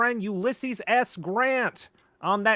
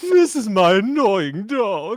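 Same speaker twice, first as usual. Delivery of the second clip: loud, unhinged, insane evil clown voice; 7 dB louder than usual. Trying out silly voices with friends, in an insane evil clown voice. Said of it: "an insane like evil clown voice".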